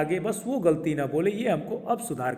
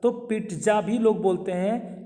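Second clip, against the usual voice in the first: usual speaking voice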